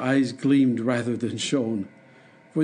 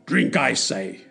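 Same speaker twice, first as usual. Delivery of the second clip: shouting. Acted. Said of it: "shouted the monster".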